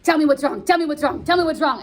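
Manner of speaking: mock nagging father pressing hard; insistent nagging. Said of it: "So Montague's like".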